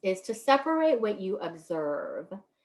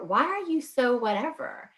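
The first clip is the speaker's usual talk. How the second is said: mock accusing question; 4 semitones higher than usual. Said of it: "so sometimes we assume".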